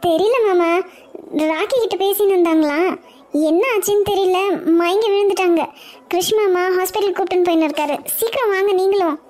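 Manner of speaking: high, breathless urgent plea; panicked alarm. Acted. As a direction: rush the news out, frightened and pleading. Daughter-in-law reports mother-in-law collapsed. (பதறிய குரலில் அவசரமாக கூப்பிடுதல்)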